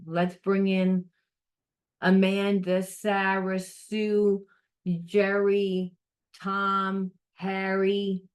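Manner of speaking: the universe jumps on the job; eager universe. Retold or imitated. The universe answers the call, eager and upbeat. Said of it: "the universe says".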